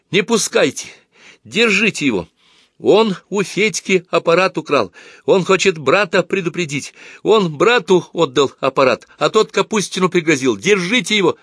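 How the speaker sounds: high, urgent calls for help; отчаянный крик. A narrator's reading. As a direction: shout to have the thief stopped. Луна хватает вора и зовёт помощь. (отчаянно, высоким голосом звать на помощь)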